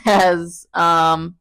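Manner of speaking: numb mouth after dental work; talking through a numb mouth; numb from the dentist. Real, not acted. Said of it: "my mouth is numb".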